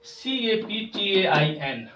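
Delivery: "सीएपीटीएआईएन" spelled slowly, letter by letter, with a laugh. Shown as a demonstration. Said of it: "हमारी mistake".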